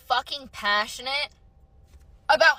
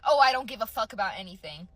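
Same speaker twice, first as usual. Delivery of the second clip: lower, offhand imitation of indifference; mock nonchalance; 5 semitones lower, faster than usual. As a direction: imitate someone who couldn't care less. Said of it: "like, nonchalant".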